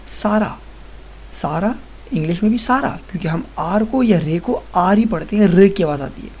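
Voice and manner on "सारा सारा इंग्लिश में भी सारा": सारा with a plain tapped r; Urdu r reading. Shown as a demonstration. Teacher reads सारा the Urdu way first. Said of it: "तो ये आप पढ़ेंगे".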